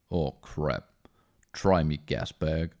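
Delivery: lightly voiced Hellboy sneering back. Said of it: "a deep manly Hellboy".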